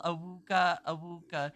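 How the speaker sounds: loud hammed-up awooga honk; mock yell. Streamer acting out the donation's cartoon wolf, loud mock yell. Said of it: "and yell".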